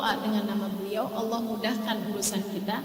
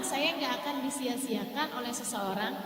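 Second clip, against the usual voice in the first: ordinary talk, nothing marked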